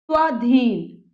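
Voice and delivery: स्वाधीन with a full, long aa after sv; long आ sound. Shown as a demonstration. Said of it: "आ की sound आ जाए". (स्वाधीन में आ की लंबी ध्वनि)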